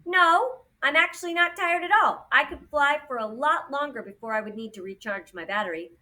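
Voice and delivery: high, eager little drone voice; perky high-voiced drone objecting; chatty drone Fly. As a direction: pipe up in protest, pitched high.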